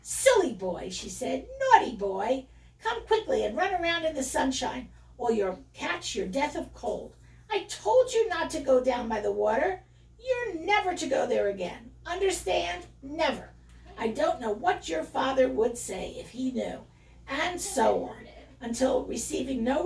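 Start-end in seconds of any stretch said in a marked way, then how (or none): 0.0-0.9 sharp mother's reproach, pitched down; scolding. Acted. Mother after a bad fright, scolding her son. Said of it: "scolding as she went". 1.6-16.8 fussing, emphatic mother's telling-off; scolding. Acted. Mother sow to her wet piglet, scolding. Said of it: "scolding as she went in the way that mothers do".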